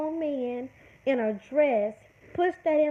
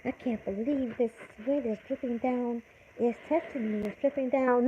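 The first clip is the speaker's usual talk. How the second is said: mock girly complaining; 3 semitones lower, 4 dB quieter than usual. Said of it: "complaining like a girl".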